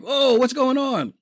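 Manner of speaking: high, slow puzzled cry; drawn-out confused kid; mock bewilderment. Kid confused by the movie opening, slow high bewildered voice.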